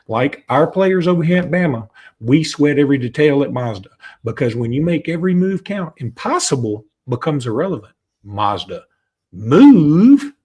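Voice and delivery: upbeat sponsor read closing on a big slogan. Acted. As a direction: sell the Mazda tagline. Reads Mazda ad copy.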